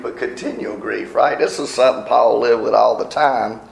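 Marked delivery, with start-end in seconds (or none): 0.0-1.1 "continual" hit, set against "occasional"; stress on continual. Shown as a demonstration. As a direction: lean on "continual", softly. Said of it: "Not just occasional grief".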